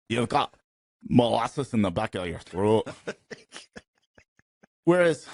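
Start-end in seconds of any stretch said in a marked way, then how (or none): 0.1-2.9 thick-throated put-on Scottish accent; mock Scottish accent. Shown as a demonstration. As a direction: imitate a Scottish accent, as if through molasses. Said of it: "Scottish is like".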